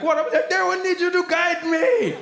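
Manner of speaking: high, slow mock mom voice; a hint of a puzzled mother; imitating mom. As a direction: lightly play mom asking for help. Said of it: "she'd come in and be like".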